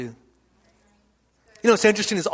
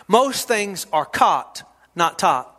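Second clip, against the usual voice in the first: slow repeat; 3 semitones lower, slower than usual. Shown as a demonstration. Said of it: "Let me say that again".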